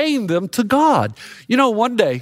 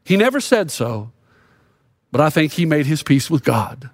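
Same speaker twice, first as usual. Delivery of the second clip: Forrest voice; 6 semitones lower than usual. Retold or imitated. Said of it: "And Forrest says".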